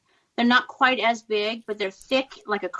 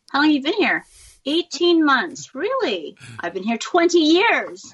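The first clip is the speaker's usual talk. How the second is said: retold confrontation; 5 semitones higher, 4 dB louder than usual. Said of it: "trying to do this fake Australian accent".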